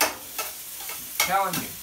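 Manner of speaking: slow whisper; whispered confidentially to viewers, slow; whispered aside. Real, not acted. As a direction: breathe it out slowly, almost silent.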